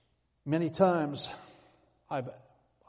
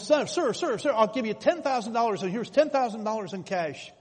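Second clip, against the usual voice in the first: much higher and louder calling after him; retold yell; 6 semitones higher, 6 dB louder than usual. Buyer yells after the departing inventor, loud pleading call. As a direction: shout after the man who walked away. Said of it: "And the man yelled at him".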